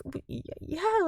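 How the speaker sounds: put-on stammering girls. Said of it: "And the girls are like".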